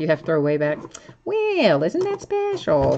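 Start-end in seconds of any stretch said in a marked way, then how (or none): 1.2-3.0 very high, prim voice, done badly. A Dolphins player does a bad Church Lady impression. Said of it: "a very bad impersonation of Dana Carvey doing the church lady".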